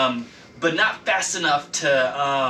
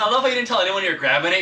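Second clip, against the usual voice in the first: laughing; 7 semitones higher, 6 dB louder, much faster than usual. Real, not acted. Laughing at player's move.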